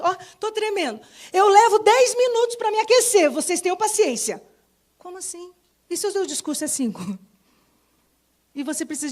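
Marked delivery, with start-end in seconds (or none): 0.0-4.4 higher, louder mock of a nervous speaker; mock nervous woman. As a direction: play the woman excusing her nerves. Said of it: "Quantas vezes você vê a mulher fazendo isso?". (imitando uma mulher nervosa, mais aguda)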